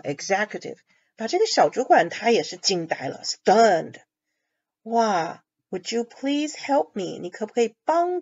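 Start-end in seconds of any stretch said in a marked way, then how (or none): 4.8-7.2 slow, courteous would you please; gentle polite asking tone; polite request. Shown as a demonstration. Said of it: "用很客气的口气".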